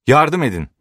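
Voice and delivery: high-pitched, urgent call; cry for help. A narrator's reading. Ober after the old watchmaker collapses, crying out for help. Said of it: "diye haykırdı Ober".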